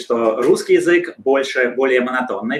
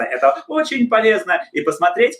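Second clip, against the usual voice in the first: "очень" sung out high, gliding down through "полезно"; exaggerated high melody on "очень полезно"; musical intonation; 7 semitones higher than usual. Shown as a demonstration. Translator practising English melody in Russian, high swooping "очень полезно". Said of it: "мы так можем тоже говорить и по-русски".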